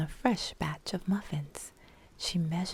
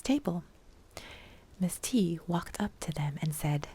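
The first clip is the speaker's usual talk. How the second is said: whispered narration. A narrator's reading. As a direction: breathe the story in a whisper.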